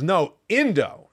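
slow, insistent "No, Indo" with a firm falling end; mild imitation of a stubborn child; a hint of a toddler setting dad straight; toddler correcting. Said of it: "And she goes".

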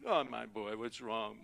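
lightly acted doting parent; emoting dad. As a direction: coo gently as if consoling a son. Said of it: "He was gonna emote with me".

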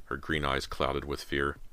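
plain reading voice

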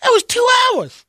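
high exasperated shout. Acted. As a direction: yell it out, fed up. Player arriving late, exclaiming.

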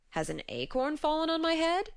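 a lightly voiced dozy giant; drowsy giant voice. A narrator's reading. Sleepy giant wonders aloud.

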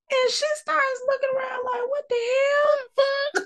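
high squeal on the edge of laughter; tickled retelling. Retold or imitated. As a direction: squeak out the bewildered question, cracking up. Amused retelling of bewildered reaction.

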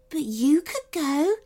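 high, hopeful fairy voice; a little lift of hope. A narrator's reading. Third fairy hopefully suggests the girl could go. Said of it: "said the third fairy hopefully".

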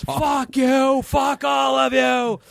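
high, slow yelled curse; mock furious exit. Chevy cursing everyone while storming out, high mock shout. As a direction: spit it out storming off. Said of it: "he storms off".

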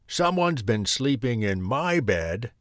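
gruff bear grumble; grumbling Daddy Bear. A narrator's reading. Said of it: "he grumbled".

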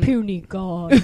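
slow, low Hulk growl. Retold or imitated. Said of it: "say the line, "Puny God".

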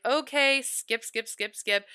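a dismissive "skip, skip" brushing it off; mock bored viewer. Viewers dismissing the cold shower habit, mock impatient skipping. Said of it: "You're all like".

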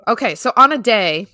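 crisp news-anchor read; reporter voice. Acted. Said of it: "you put your reporter voice on".

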